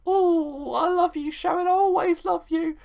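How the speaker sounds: high-pitched, hammed-up lovesick voice; mock declaration of love. Host mimics Ian declaring love to Sharon, hammed-up and high. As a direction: gush it as a mocking imitation. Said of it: "this awful scene where he said to her".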